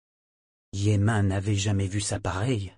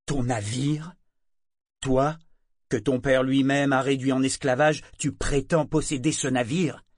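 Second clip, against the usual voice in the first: moqueur; 4 semitones higher, 4 dB louder than usual. Acted. Prêtre se moque de Yémin.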